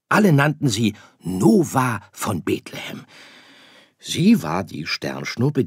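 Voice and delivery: väterlich erklärend, etwas höher und lauter; geduldiger Sternenvater. Acted. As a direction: der Vater erklärt seinem Sohn die Welt der Sterne. Vater erzählt von Nova. (leicht gespielter Vater, erklärend)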